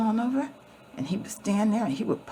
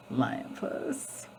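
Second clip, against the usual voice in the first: Lion Puss whispered softly; whispered name; 5 semitones lower, 5 dB quieter than usual. Acted. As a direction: breathe Lion Puss under your breath.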